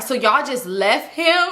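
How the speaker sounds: slow, laughing question; mock-incredulous laugh; laughing disbelief. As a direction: ask it through laughter. Friend laughing at the news.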